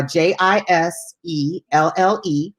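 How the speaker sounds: each letter said slowly and separately; slow spelling. Shown as a demonstration. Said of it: "let me spell it for you".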